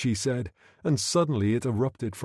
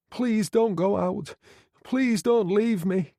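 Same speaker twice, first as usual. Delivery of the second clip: high, louder, slow desperate plea; pleading young woman; 10 semitones higher, 3 dB louder, slower than usual. A narrator's reading. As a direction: beg him not to go, pitched high. Girl begs Fallon to stay.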